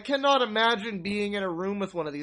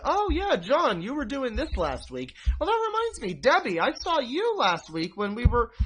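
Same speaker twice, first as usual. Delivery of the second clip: much higher, chirpy mock host voice; mock party host; 4 semitones higher than usual. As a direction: play the guy steering the table talk, lightly hammed. Imitating the conversation-leading guy.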